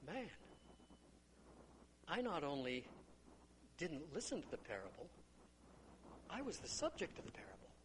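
soft, hushed self-confession; quiet realization. Acted. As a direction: murmur it, realizing it was you. Villager's sober self-realization over tea.

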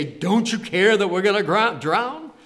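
loud, high indignant protest. Acted. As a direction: cry out in affronted disbelief. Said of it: "wake him up a little bit indignant".

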